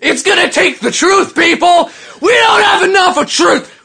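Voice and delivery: mock rant. Ranting talk-radio host.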